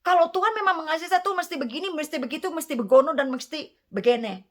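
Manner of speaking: imitating a believer who argues with the pastor about God; mock arguing believer. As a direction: rattle off demands like someone arguing with the pastor. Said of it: "Dia berdebat dengan saya".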